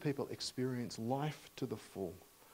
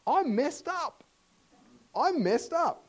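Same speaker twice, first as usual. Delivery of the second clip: anguished confession; 8 dB louder than usual. Acted. Peter's confession, voiced loudly.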